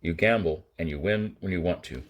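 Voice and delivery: understated grim tone. Acted. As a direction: lay it out grimly. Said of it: "Kirk said grimly".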